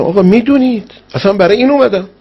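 high, imploring cry, acted out; retold tearful plea. Weeping pilgrim answering the Imam in his dream, high tearful plea. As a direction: plead upward as if weeping.

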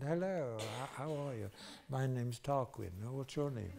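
imitating a posh English partygoer's accent; lightly mock a posh English host's accent. Tarquin introduces himself at the party, posh English accent. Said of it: "Same sort of party".

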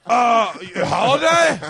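slow, loud, pedantic correction; mock British correction. Friends mocking a Brit's word corrections, loud slow pedantic. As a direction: drag it out like a fussy Brit. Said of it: "imitating British correction".

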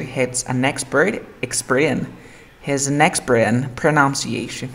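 slow build-up to "exper-in"; "expert in" joined without the T; linking demonstration. Shown as a demonstration. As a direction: link "expert in" step by step. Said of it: "Voy a decir".

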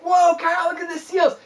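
excited shout to a friend across the water; excited call. Retold or imitated. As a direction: call out to Kyle, amazed. Calling out to Kyle on seeing seals.

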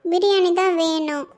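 put-on a kid pleading with mom; whiny child. Boy begs mother.

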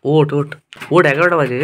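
calling her awake. Real, not acted. Husband calling his sick wife to get up, loud and insistent. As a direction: rouse her from bed, insistent.

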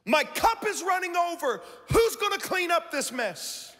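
the same words, high and put-upon, like a complainer; grumbling pessimist. Retold or imitated. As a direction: whine about the mess.

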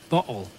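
"bottle" with a glottal stop for the tt. Shown as a demonstration. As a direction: cut the middle of "bottle" with a catch in the throat. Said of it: "doesn't have the glottal stop".

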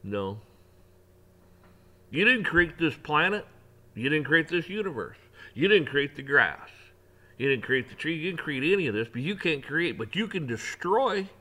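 preacher defying earthly rulers, rising and forceful; defiant rebuke. Pretend. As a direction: tell the rulers off, building to destroy. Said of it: "stand up and say".

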